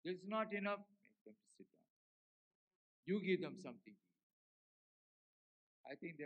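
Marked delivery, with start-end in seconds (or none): 0.8-1.8 much softer, lower calm command; softly voiced God. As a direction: let it settle, hushed and sure. God's calm answer, repeated contrast.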